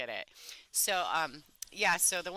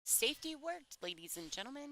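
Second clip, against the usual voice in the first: excited; 10 semitones higher, 8 dB quieter than usual. Real, not acted. Safety shot succeeds on stream.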